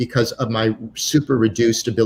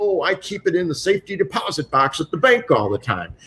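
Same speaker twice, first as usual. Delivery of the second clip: put-on Texan accent, pitched up; 6 semitones higher than usual. Retelling an Englishman quoting a Texan watch buyer, imitating a Texas accent. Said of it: "So he does a Texas accent".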